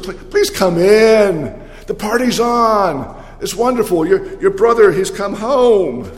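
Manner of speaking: pleading father. Acted. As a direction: coax him inside, please after please. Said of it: "He pleads with".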